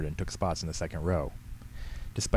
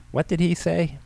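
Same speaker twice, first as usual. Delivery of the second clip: high-pitched, oblivious loud question; old lady's carrying voice, only moderately raised; too loud; 10 semitones higher, 3 dB louder, slower than usual. A narrator's reading. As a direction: ask it as if over the movie's dialogue. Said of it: "in a voice that was louder".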